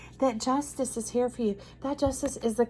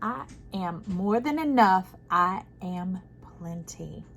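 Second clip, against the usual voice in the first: affirmation; 2 semitones lower, slower than usual. Shown as a demonstration. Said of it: "So say it with me".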